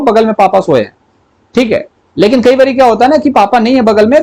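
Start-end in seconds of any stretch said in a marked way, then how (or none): none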